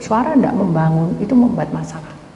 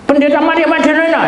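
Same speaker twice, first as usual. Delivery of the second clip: raised, high-pitched call of a name; a loud acted hail, pitched up; 9 semitones higher, 5 dB louder than usual. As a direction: hail the pastor by full title, loudly. Quoted person hailing the preacher.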